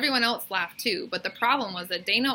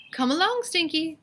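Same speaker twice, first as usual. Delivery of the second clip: high, loud calling voice; calling mother; 9 semitones higher, 3 dB louder than usual. A narrator's reading. Skunk mother calls Stinky to hurry along, calling high. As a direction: call the little one to follow. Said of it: "called his mother".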